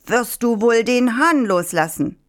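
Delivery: high-pitched demand; calling out. A narrator's reading. Farmer pursuing the fox with the rooster, calling out. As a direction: demand it from a distance, pitch lifted. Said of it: "Der Bauer verfolgte ihn weiter und rief".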